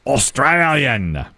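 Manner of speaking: slow, drawn-out announcer call; stretched-out game-show host reveal. Pretend. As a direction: draw out the answer for suspense.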